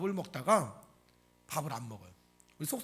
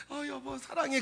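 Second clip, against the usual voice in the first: sweet and smiling; 7 semitones higher than usual. Acted. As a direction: coo it lightly to a husband. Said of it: "막 웃으면서 살랑살랑". (살랑살랑 웃으며 애교 있게)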